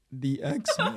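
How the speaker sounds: tearful, sobbing voice, words broken up by sobs. Retelling answering mom's question about who died, imitating own past sobbing. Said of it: "like like sobbing".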